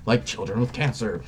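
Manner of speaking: a mocking bureaucrat gasping at the insult; mock freak-out. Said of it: "They start freaking the hell out".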